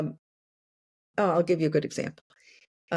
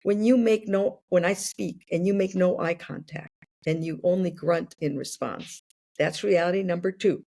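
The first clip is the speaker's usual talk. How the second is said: calm and sincere. Shown as a demonstration. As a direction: say it calmly, owning your hurt. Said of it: "it's not until I learn to say".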